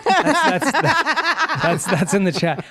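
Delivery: high laughing through words. Real, not acted. Host laughing at a chat comment about accents. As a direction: crack up while reading the chat.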